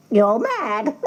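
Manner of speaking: scornful hen. A narrator's reading. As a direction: dismiss him like a bossy hen. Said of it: "said the hen".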